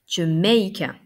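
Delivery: "Jamaica" with MAI punched, first A a weak "uh"; stress on second syllable. Shown as a demonstration. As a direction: lean on the middle syllable of "Jamaica". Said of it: "J'insiste sur la deuxième syllabe". (« Jamaica » accentué sur la deuxième syllabe)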